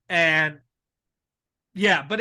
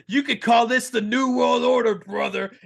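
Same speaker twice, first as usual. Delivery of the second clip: raspy wrestler promo, punching call; Hulk Hogan impression; 3 semitones higher than usual. Naming the New World Order to the crowd, Hogan promo voice. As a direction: growl the catchphrase ending on brother. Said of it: "And Hulk Hogan goes".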